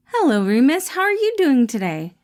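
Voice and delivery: bright caring boss checking in; Patton voiced. Boss greets his employee Remus, cheerful caring voice.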